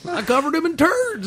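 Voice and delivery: high, loud silly brag; goofy shouted boast. Pretend. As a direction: yell it proudly. Voicing Aquaman mid-joke.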